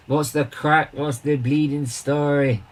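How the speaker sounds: a hint of mock Irish accent. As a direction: imitate a friend's Irish greeting, drawn out at the end. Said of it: "he has that Irish accent".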